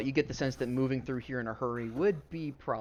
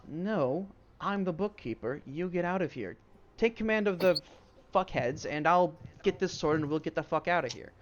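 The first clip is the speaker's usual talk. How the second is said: higher, bossy villain voice; Inga's voice; 6 semitones higher than usual. Retold or imitated. Inga ordering the hobgoblin out, higher and commanding. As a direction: snap orders at the goblin. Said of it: "And she goes".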